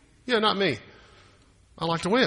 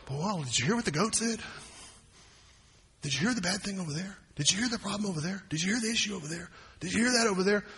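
preacher mocking whispered gossip; hushed gossip; 3 semitones higher, 6 dB quieter, faster than usual. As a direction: lean in and spread the rumour quietly. Voicing gossiping people.

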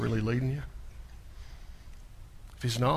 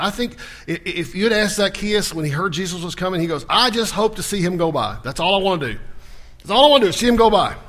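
loud, driving preacher's voice, pitched up; fiery preaching; 4 semitones higher, 7 dB louder than usual. Acted. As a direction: preach it with building fire from the pulpit. Preaching with rising force.

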